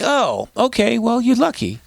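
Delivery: high-pitched, skeptical "lucky you" reply; mock concession.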